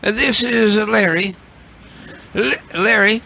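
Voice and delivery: a hint of a put-on caller; lightly voiced prank caller. Holds Larry prank voice.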